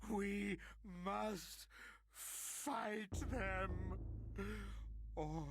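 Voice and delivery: rally them, desperate; urgent rallying cry. Acted.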